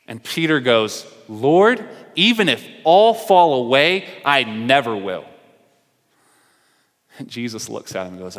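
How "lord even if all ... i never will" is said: Peter's vow, louder and raised; bold vow. Retold or imitated. Peter vowing to Jesus, louder and eager. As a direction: swear it with eager bravado.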